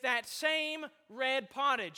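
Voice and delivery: slow, deliberate weight on "red"; stress on "red". Retold or imitated. Preacher quoting hungry Esau to his congregation, stressing "red". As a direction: draw out "same red" with emphasis. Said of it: "to emphasize the word red".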